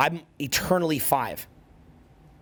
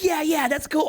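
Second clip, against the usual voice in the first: mock dismissive friends; 12 semitones higher than usual. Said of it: "they're like".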